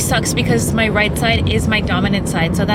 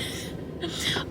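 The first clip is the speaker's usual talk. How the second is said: pained laugh; 14 dB quieter than usual. Real, not acted. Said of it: "it hurts to laugh".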